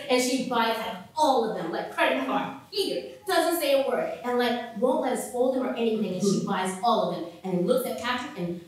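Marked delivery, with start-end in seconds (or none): none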